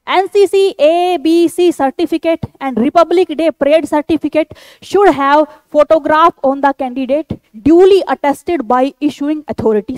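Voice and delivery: slow, deliberate read-out of a notice; reading aloud. Real, not acted. Teacher reading an army notification to candidates, slow deliberate read-out. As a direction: read each phrase out slowly and carefully.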